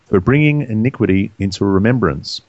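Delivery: measured, formal Bible reading; scripture reading. Real, not acted. Reader gives the law of jealousy to co-hosts, measured scripture reading. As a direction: read the verses out deliberately, pausing between phrases.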